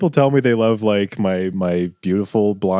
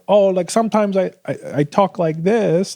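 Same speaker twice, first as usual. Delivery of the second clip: high-pitched, badly faked British accent; British accent attempt; 11 semitones higher than usual. Contestant showing a date her funny voice, high fake British accent. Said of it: "like, a British accent".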